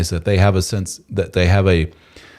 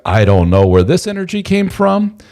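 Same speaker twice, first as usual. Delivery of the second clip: amazed husband; 9 semitones higher, 3 dB louder than usual. Retold or imitated. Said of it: "And he's like".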